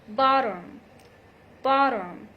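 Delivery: bottom with a quick D flap. Shown as a demonstration. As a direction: say bottom as "boddom". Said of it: "between two vowel sounds".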